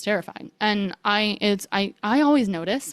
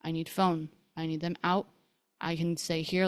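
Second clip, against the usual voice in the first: quiet inner voice; 2 semitones lower, 8 dB quieter than usual. Retold or imitated. Woman recalling planning her escape in her head, quiet. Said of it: "And in my head".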